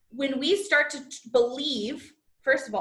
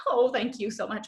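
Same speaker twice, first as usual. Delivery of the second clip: meek mock thanks; groveling thanks. Shown as a demonstration. Coach imitates groveling thanks, meek and small. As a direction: thank them like you're unworthy. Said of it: "like a groveling".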